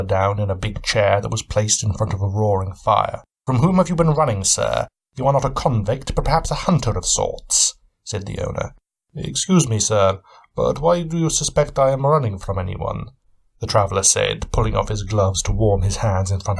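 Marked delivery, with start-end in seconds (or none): 3.5-7.7 lightly voiced shrewd gentleman, a bit higher; a hint of a keen, probing detective; Sherlock Holmes. Cabin owner sizing up his guest, lightly voiced shrewd questioning. 9.1-13.1 lightly voiced wary traveller, a bit higher; a touch of guarded suspicion; Van Helsing. Weary traveller answering his host, lightly voiced wary reply.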